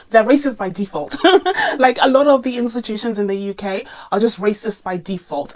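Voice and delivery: laughing through a blunt remark. Real, not acted. Vlogger to viewers about UK institutions, laughing. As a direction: laugh it out, exasperated.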